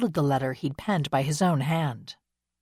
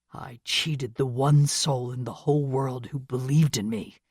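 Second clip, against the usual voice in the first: pained confession; 3 semitones lower than usual. Acted. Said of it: "in a hoarse and pained voice".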